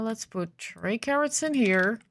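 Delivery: groggy morning voice. Real, not acted. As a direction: sound just woken up, morning voice. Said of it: "Sorry for the morning voice".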